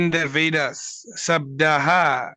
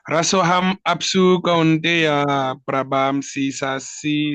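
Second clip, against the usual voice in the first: slow, careful chant of the verse; slow verse recitation; slower than usual. Acted. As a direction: recite each word slowly.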